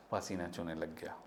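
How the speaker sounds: fearful whisper. Acted. Child sweating in fear.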